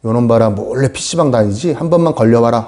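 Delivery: low, muted fatherly threat; resentful father. Acted. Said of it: "아버지의 마음이 미움에서".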